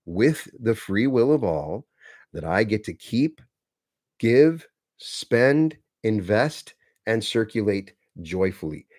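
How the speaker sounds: slow, deliberate affirmation with long pauses. Shown as a demonstration. Coach reciting the money affirmation to listeners, slow and deliberate. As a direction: recite it like a solemn vow, word by word.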